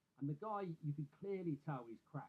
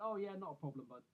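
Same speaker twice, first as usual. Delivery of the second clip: polite agreement; 2 semitones higher than usual. Retold or imitated. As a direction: imitate an obliging yes to a neighbour. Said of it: "'cause he was being polite".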